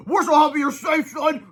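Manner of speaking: high, loud relieved father; high joyful cry. Acted. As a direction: gush with relief. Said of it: "cried Mister Sneedley".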